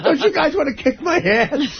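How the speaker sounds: slow, high, laughing plea to be bullied; laughing mock plea. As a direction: beg through laughter to be noticed. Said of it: "mock pleading as young Howard".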